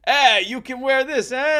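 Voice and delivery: high, loud comic Frenchman; hammed-up French rescuer; Jacques de Gatineau. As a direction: offer it in a big put-on high voice. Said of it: "that's how he talked".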